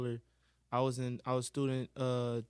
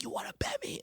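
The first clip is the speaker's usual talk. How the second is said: mocking teacher; faster than usual. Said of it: "And she was like".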